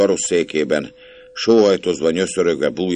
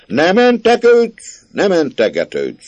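furious scolding; 13 semitones higher than usual. A narrator's reading. Uncle shouts down the nephew's excuses, furious. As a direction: cut off his excuses with a yell.

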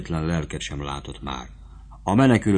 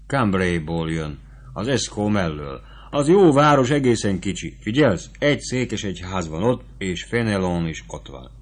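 lightly voiced sutler woman, urgent and motherly; sutler woman advising. Sutler woman urges young Fabrizio to flee, lightly urgent voice. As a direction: press the advice on him, fast and eager.

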